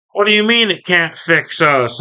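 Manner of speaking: high-pitched mock yell; Starscream. Starscream yelling at Soundwave in an argument, a high mock yell. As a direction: raise the pitch for an indignant retort, no real shouting. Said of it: "Starscream's yelling at".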